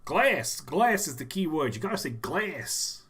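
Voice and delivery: attempted Boston accent; Boston accent leaning on the vowels. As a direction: have a crack at a Boston accent. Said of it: "I can do Boston".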